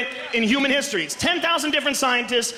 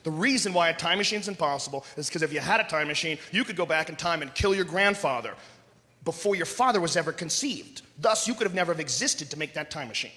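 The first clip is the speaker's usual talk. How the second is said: lightly voiced nerdy know-it-all; 6 semitones lower, 4 dB quieter than usual. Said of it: "And the guys".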